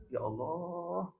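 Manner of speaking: a touch of weeping worry, acted; imitated tearful fear. Umar prays over growing wealth, mildly tearful fear. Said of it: "dia nangis".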